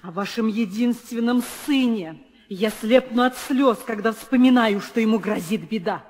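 loud, high anguished plea; wailing lament. Acted. Nurse wails to the queen about her son's danger. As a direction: cry out in false grief.

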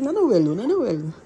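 imitating Bella's protest. Vlogger mimicking her friend Bella's reaction, mock protesting. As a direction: mimic a friend's squeal of denial. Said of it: "She say".

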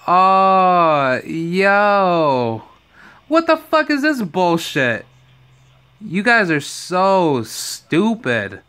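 high, loud outraged yell, slowing at the end; outraged rant. Real, not acted. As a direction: vent at them in real disbelief. Outraged at the fight news.

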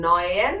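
"നയൻ" as German neun, noy-en; "നയൻ" said as noyn, not nine; German pronunciation. Shown as a demonstration. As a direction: stress the oy in "നയൻ" for learners. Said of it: "confusion വരല്ലേ".

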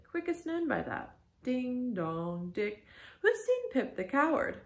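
mad boy playing ship's crier, swinging high; crazed Pip. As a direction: chant the bell, then cry the notice high. Narrator voices Pip as crier.

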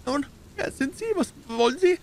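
hohes, verunsichertes Männlein; ängstlich und zaghaft nachfragen; unsichere Stimme. A narrator's reading. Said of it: "fragte er mit unsicherer Stimme". (mit unsicherer, hoher Stimme)

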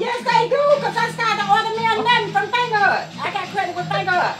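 high-pitched, emphatic contradiction; insistent protest. Real, not acted. Grandmother contradicts grandson.

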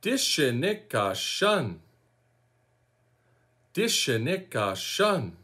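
Dishinika Shun as dih-shih-NEE-ka SHUN, syllable by syllable; teaching pronunciation. Shown as a demonstration. Teacher showing learners what follows the name, careful dih-shih-nee-ka SHUN. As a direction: model "Dishinika Shun" carefully, last word falling. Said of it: "Try to say that with me".

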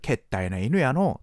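lightly voiced Kansai taxi driver, drawn out; a hint of Osaka driver banter; thick Osaka cabbie. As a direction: imitate a local cabbie, a little slowly. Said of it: "運転手さんのなんかコテコテの".

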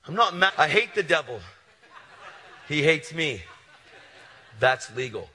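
loud, high preaching; full-force pulpit preaching; fiery preaching. Acted. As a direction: preach it hard to the crowd.

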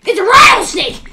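loud cry of alarm; mock alarm. Player warning of a rattlesnake, in a loud mock-alarmed shout. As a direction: shout a playful snake warning. Calling out a snake in play.

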